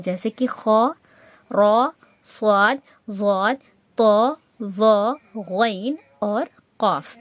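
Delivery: slow, spaced list of full-mouthed letters; heavy full-mouthed letters. Shown as a demonstration. Tajweed teacher listing the heavy letters, full and rounded. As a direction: say each Arabic letter heavy and rounded, from خا to قاف. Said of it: "موٹا پڑھنا ہے".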